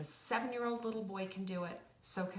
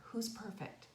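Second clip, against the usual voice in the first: soft question; 3 semitones higher, 5 dB quieter than usual. Retold or imitated. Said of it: "And I said".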